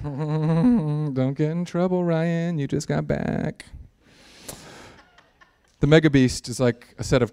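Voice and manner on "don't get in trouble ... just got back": slow, laughing teasing aside; laughing slowly through a playful aside. Real, not acted. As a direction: chuckle a warning to a friend.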